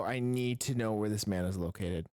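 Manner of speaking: low, intense demand; dead serious. Acted. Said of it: "dead seriousness".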